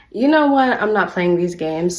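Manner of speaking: loud retold outburst of I'm done; fed up. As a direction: announce it like you're done with their games. Retold standoff with roommates over soap.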